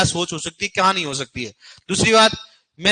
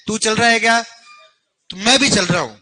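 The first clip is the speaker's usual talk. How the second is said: louder, mocking student's line; teacher throws the excuse back louder; 2 semitones higher, 4 dB louder than usual. Teacher mocking lazy students, louder mock excuse. Same excuse, quoted again.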